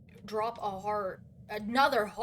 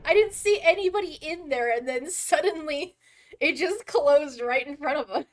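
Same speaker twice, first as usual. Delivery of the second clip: loud, high, indignant rant; loud disbelief; 4 semitones higher, 8 dB louder than usual. Real, not acted. Gamer ranting at teammates about the closed elevator, loud indignant yell. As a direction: yell it at the screen.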